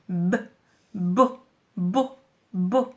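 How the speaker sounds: "B" as "beu", then "bo" repeated separately; son bien détaché. Shown as a demonstration. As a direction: lean on the b in each "bo". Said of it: "Écoute bien". (« bo » détaché, le « b » bien appuyé)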